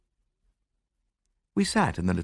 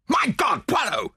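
loud, high exclamation of shock; horrified cry; 4 dB louder than usual. A narrator's reading. Narrator calls to detective in the dark, horrified cry. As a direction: call out aghast, pitch jumping up. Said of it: "I cried".

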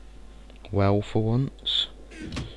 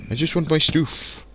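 whiny high plea; 8 semitones higher than usual. Real, not acted.

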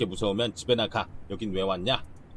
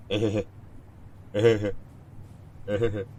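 giggle. Acted. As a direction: giggle it out coyly. Reading a character's giggle.

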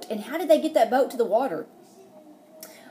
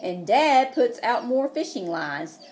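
bright storybook read-aloud; lively picture-book narration; reading to children; 3 dB louder than usual. Acted. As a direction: read it like story time for little kids. Teacher reads picture book aloud.

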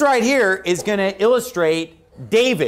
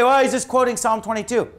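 higher-pitched imitation of a doubter; mimicking an objector; 5 semitones higher than usual. Preacher voicing the listener's objection, mimicking. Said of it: "You say".

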